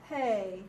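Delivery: Hey begun with an audible breath from the throat; guttural from the throat. Shown as a demonstration. Teacher showing a guttural letter, Hey from the throat. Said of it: "coming from the throat".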